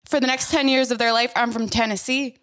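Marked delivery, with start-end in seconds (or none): 1.4-2.4 put-on Tennessee twang; Southern belle accent. Gaslighting her kids, pretend Southern accent. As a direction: play a Southern belle, rising into protest. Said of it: "then I just switch accents".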